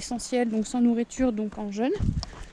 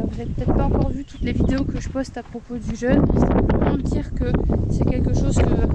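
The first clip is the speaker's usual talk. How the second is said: shouting over wind; 4 dB louder than usual. Real, not acted. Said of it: "j'espère que vous m'entendez avec le vent".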